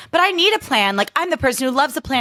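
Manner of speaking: hammed-up fretful girl voice; mock anxious planner. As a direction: parody the heroine's fretting about plans. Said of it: "Madeline Klein being like".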